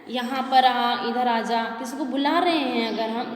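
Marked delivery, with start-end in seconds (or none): 0.1-1.6 slow, drawn-out call to a distant person; calling from afar. Shown as a demonstration. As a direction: stretch the vowels as if calling across a field. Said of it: "जब हम किसी को दूर से बुलाते हैं". (दूर खड़े व्यक्ति को हल्की, धीमी खिंची पुकार)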